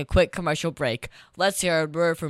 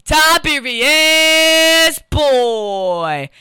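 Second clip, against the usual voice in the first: drawn-out booming name call; ringmaster; 7 semitones higher, 8 dB louder, much slower than usual. Acted. Host drawls own name.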